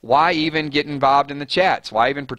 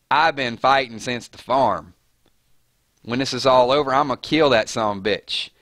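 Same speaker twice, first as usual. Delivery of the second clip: Maggie. Acted. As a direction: attempt a mild Georgia accent impersonation. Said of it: "That's my best Maggie impersonation".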